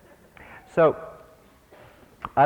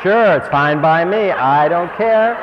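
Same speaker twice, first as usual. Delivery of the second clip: higher, louder, slow, mock-cheerful; sarcastic; 6 semitones higher, 8 dB louder, slower than usual. Real, not acted. The teacher mocks his own sacrifice with slow sarcasm. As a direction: lay the sarcasm on thick, drawn out.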